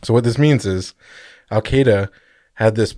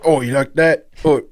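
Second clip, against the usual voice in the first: higher, put-on Aussie tough-guy voice; mock drunk Australian brawler; 4 semitones higher than usual. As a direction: taunt like a cartoon Aussie fighter. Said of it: "And he's like".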